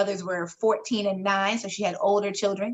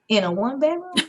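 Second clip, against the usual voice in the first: incredulous; 4 semitones higher than usual. Retold or imitated. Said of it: "I was like".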